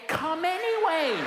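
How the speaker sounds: mock-stubborn insistence; insistent. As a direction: insist cheerfully. Insisting, building for laugh.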